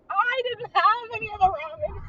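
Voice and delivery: loud, high, hammed-up glee breaking into laughter; mock cackling delight; imitated hysterical laughing. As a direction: play someone dying laughing at her own line. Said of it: "the mom just dies laughing".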